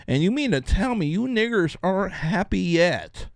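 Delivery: a hint of a smug, patronizing official; mocking Pete Buttigieg. Vlogger parodies Pete Buttigieg to his viewers, mildly put-on patronizing voice. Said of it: "that's the way Pete Buttigieg is talking".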